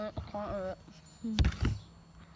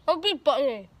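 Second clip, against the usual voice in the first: cheeks stuffed with grapes; mumbled through grapes; mouth full; 6 dB louder, faster than usual. Real, not acted.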